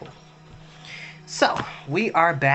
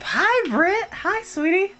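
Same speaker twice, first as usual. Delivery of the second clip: high sing-song greeting; slower than usual. Real, not acted. High-pitched viewer greeting.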